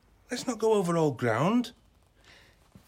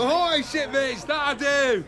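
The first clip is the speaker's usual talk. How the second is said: pirate voice; 8 semitones higher, 3 dB louder, slower than usual. Acted. Joins pirate banter at party.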